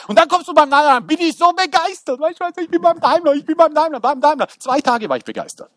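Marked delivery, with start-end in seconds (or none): 0.1-4.5 excited. Retold or imitated. Preacher acting his excited self.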